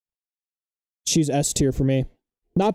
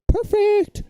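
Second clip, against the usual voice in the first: excited. Real, not acted. Excited reaction to meme.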